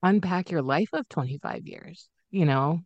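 fighting tears; teary. Real, not acted. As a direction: voice tight with held-back tears. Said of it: "getting all teary thinking about this".

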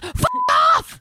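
loud, high yell; shouted last words. Acted. Action hero giving last words to pigeons, shouting. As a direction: holler it as a final battle cry. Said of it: "last words".

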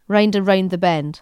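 imitated Northern Irish "rind"; Northern Irish accent. Shown as a demonstration. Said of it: "I do like a Northern Irish accent".

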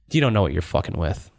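low, restrained villain warning; understated threat. Acted. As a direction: deliver a low in-character threat. Villain's threat, acted in character.

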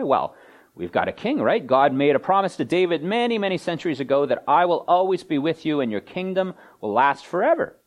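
mildly cocky, pitch often lifted; cocksure. Acted. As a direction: lightly act out a people sure they're safe. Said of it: "in a cocksure kind of way".

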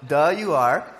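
tossed off lightly, a touch mocking; offhand. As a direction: say it casually, like it's obvious. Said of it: "just says it in an offhand way".

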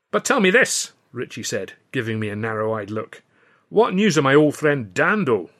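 a hint of a Scottish comic, delighted; lightly voiced Scotsman. Ritchie asks for news.

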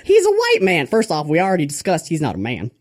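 lightly voiced preacher, mock indignation; Father Grandfather. Preacher rebutting what some people say, mock-indignant. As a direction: argue from the pulpit, lifting high on the protests. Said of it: "motivational speech on the Lord Baby Jesus by Father Grandfather".

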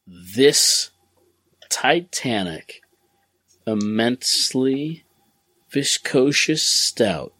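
choppy connection, robotic dropouts; broken-up audio like a bad call; cutting out. Real, not acted. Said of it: "Sorry, you're cutting out".

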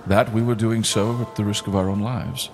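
lightly voiced solemn captain; gentle hint of a ship captain's funeral speech; captain's eulogy. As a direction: speak as a grieving captain honoring a friend. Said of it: "says Captain Salias".

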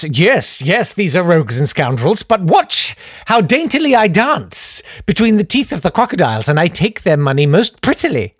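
lightly voiced self-satisfied schemer; smug mock politician. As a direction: play a dainty, boastful rogue. Voicing smug Conservatives taking money.

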